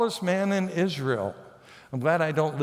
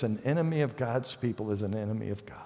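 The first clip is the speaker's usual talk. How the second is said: whispered emphasis; 7 semitones lower, 5 dB quieter, faster than usual. Acted. Whispered key truth.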